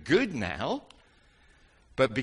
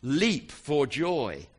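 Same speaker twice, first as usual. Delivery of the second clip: leap for joy; 4 semitones higher, 5 dB louder, much slower than usual. Shown as a demonstration. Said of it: "would you all please stand up and jump".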